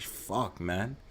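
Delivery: breathy, whispered, deflated curse. Retold or imitated. Friend hurt by a slur, whispering a curse. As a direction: let it out under your breath, beaten.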